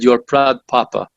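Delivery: imitated Russian accent; lightly put-on Russian accent. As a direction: quote her with a Russian accent. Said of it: "this Russian accent".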